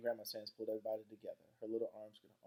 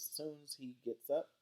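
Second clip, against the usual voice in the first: drawn out; 6 semitones higher, slower than usual. A narrator's reading. Narrator retakes Grandma's line.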